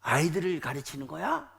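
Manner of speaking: retold scolding from an angry general; indignant dressing-down, acted lightly; mild mock yell. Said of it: "이러면서 막 소리치면서".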